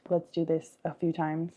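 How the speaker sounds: unhurried breathing cues with long pauses; guided meditation. Acted. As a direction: leave room to breathe after each instruction.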